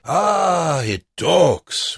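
high, loud mocking exclamation; loud mockery. A narrator's reading. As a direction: announce it so the guard overhears. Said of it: "loud enough so the guard".

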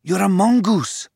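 high, marvelling discovery; amazed realisation. A narrator's reading. Anand recognises the animal as a mongoose, amazed. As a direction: voice lifting in astonishment.

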